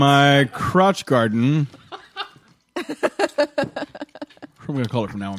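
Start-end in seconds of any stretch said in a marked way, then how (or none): 0.0-1.7 laughing. Real, not acted. Joking, laughing.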